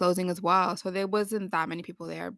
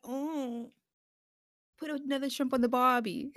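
mock Irish accent; 4 semitones higher, 4 dB quieter than usual. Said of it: "I kept doing an Irish accent".

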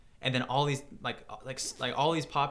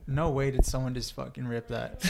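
laughing in disbelief. Real, not acted. Surprised, laughing at ripped video.

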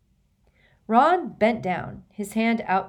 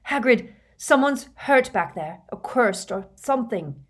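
urgent shout; 5 semitones higher, 6 dB louder than usual. Acted. Harry urgent in wind.

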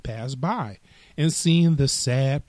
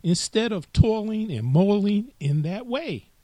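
grasshopper; 9 semitones higher than usual. Acted. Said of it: "said the grasshopper".

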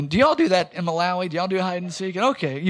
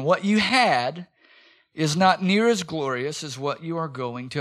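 slow emphatic repeat; 3 semitones lower than usual. Shown as a demonstration. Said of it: "Let me say it again".

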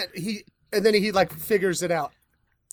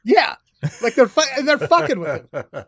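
excited; 6 semitones higher, 5 dB louder than usual. Real, not acted. Excited retelling.

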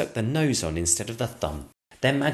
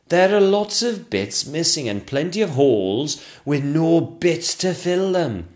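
grumbling sculptor; 8 semitones higher, 5 dB louder, slower than usual. Acted.

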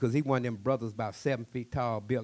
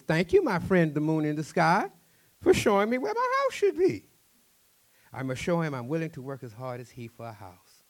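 calling up to the moon, loud and high; loud grateful cry; 4 semitones higher, 9 dB louder than usual. Acted. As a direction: shout thanks to the sky with joy. Fisherman thanks the moon.

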